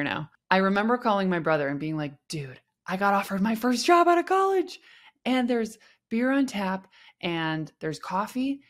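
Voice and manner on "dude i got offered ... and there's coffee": excited. Retold or imitated. Calling brother about first job.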